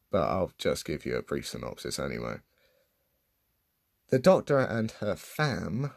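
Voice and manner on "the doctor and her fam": sarcastic air quotes on fam; slow, mocking stress on fam. Shown as a demonstration. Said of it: "I'm doing air quotes because that is a stupid thing".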